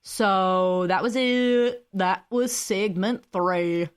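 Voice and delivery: put-on slow, drawled Southern accent; mock Southern drawl. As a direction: put on a lazy Southern twang. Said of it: "that was my southern voice".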